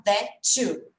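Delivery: "that too" run together as one word; linked sounds. Shown as a demonstration. Teacher demonstrating to a student how English joins sounds, linked "that too". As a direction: join "that too" without a gap. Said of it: "eu junto e vai ficar".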